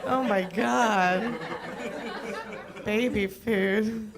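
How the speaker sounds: laughing through the words, pitch jumping high; cracking up mid-line, slowed by laughter; real laughter. Real, not acted. Comic cracks up telling the crowd about the cashier, laughing. Laughing at own joke onstage.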